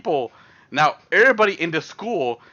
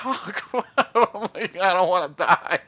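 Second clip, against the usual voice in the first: mock panic; 4 semitones higher than usual. Inner panic in his head.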